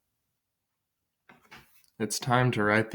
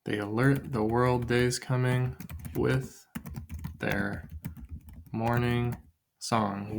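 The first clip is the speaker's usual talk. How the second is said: trying out a line; 4 dB quieter, slower than usual. Shown as a demonstration. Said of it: "Or maybe I say".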